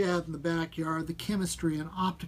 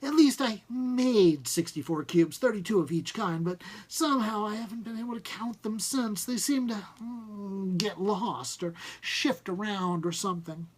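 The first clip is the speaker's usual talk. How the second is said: embarrassed inventor; 3 semitones higher than usual. Acted. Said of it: "he seemed embarrassed".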